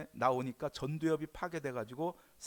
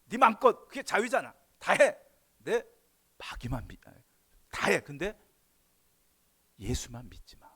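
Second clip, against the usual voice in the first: loud, high mock devil urging; a devil yelling freedom at you; shouting devil; 4 semitones higher, 9 dB louder than usual. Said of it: "마귀가 이렇게 하는 거예요".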